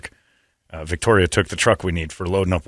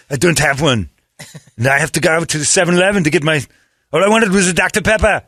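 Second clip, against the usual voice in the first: whiny customer; 7 semitones higher than usual. Retold or imitated. Customer complaining to the clerk about needing a mask, whining. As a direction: complain like a put-out shopper.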